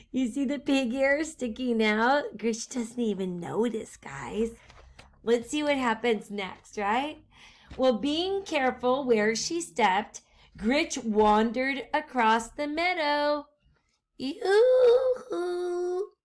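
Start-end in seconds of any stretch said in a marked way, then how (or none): 2.4-4.5 whisper. Real, not acted. Teacher whispers secret to class. 14.2-16.1 high sing-song yoo-hoo call; shouted yoo-hoo. A narrator's reading. Witch calling across the meadow, high sing-song shout. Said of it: "she shouted".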